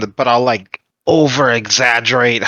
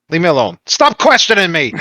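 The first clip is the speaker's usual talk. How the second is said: raised, mildly exasperated protest; defensive outburst; 5 semitones higher than usual. Acted. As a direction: build from irritated to a higher-pitched protest. Defensive character refusing questions.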